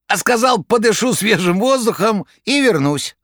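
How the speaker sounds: high, rattling jester voice. A narrator's reading. Koroviev on phone.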